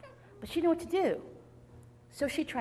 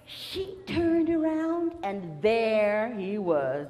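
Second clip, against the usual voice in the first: loud, drawn-out suspense; slow, booming storyteller's reveal; dramatic reveal; 6 dB louder, much slower than usual. A narrator's reading. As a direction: stretch the words out big and loud.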